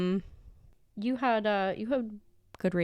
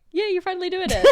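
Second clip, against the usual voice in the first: excited; 11 semitones higher, 5 dB louder, much faster than usual. Retold or imitated. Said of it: "I'm just saying, like".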